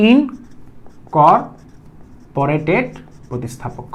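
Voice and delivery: ইনকর্পোরেটেড drawn out very slowly, then প্রতিস্থাপক dropped low and soft; stretched-out term. Shown as a demonstration. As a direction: drag ইনকর্পোরেটেড out, let প্রতিস্থাপক fall away. Teacher stretches key term. (ইনকর্পোরেটেড খুব টেনে টেনে, প্রতিস্থাপক নিচু আর নরম)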